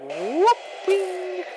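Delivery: very high celebratory yelp; gleeful whoop. Real, not acted. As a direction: squeal with victory. Celebrating beating the boss.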